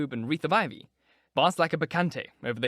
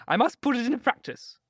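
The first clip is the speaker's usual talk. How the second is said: put-on high, chattering old duchess; gushing duchess; 11 semitones higher, 4 dB louder than usual. A narrator's reading. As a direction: flutter on like a vain old society lady. Duchess voice again.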